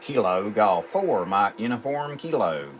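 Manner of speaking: callsign spelled out in radio alphabet, each word distinct; NATO phonetic spelling. Real, not acted. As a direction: spell it like a radio operator: Kilo Golf four Mike Uniform Kilo.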